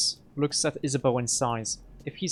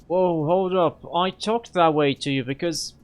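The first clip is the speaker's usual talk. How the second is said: loud, higher, cutting in; shouting over him; 4 semitones higher, 5 dB louder than usual. Acted. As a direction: shout him down mid-argument. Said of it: "he shouts over him".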